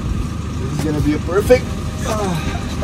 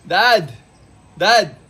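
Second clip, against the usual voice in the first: higher-pitched call across to Dad; 5 semitones higher than usual. Real, not acted. Calling out to dad outside.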